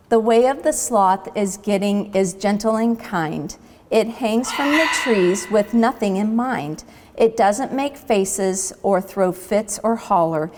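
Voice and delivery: a lightly lilting poem recital; poem recitation. A narrator's reading. Sloths reciting their poem for the boar, gently sing-song. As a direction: recite it like a childhood verse.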